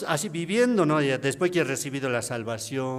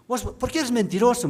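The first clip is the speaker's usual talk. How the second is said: high, louder, reproachful wife's voice; a wife scolding her husband for lying, accusing; 11 semitones higher, 5 dB louder than usual. Retold or imitated. Esposa acusando, voz alta y reprochadora. Wife confronts him at home.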